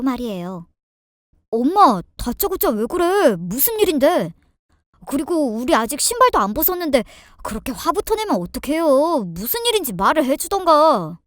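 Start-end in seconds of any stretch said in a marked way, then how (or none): 1.5-11.2 mildly exasperated son to his mother; protesting husband. Acted. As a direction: protest with a touch of annoyance. Narrator voices the protesting husband. (살짝 짜증 난 남편의 항의)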